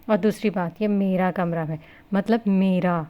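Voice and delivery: "میرا" پر زور دے کر، ہر لفظ الگ الگ; "میرا کمرہ" اور "مطلب میرا" کو بھاری زور سے; stressing words. A narrator's reading. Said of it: "اس نے لفظوں پر زور دیتے کہا". (لفظوں پر زور، "میرا" نمایاں)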